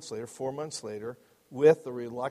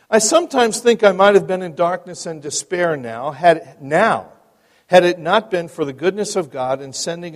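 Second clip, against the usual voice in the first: loud, deliberate storytelling from the pulpit; dramatic account reading; 2 semitones higher, 11 dB louder than usual. A narrator's reading. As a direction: read the memoir aloud with strong openings. Reads a written account aloud.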